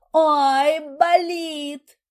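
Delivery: high, loud pained cry. A narrator's reading. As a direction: cry out, gripping your belly. Clutches belly in pain.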